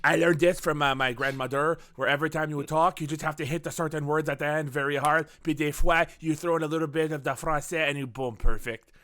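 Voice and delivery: lightly put-on French accent, key words hit hard. Shown as a demonstration. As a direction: demo a French accent, punching the phrase endings. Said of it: "I could do French accents".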